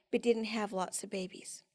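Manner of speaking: hushed whisper, voice dropping. Real, not acted. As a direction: say it almost without voice, in grief. Tells of sister's miscarriages.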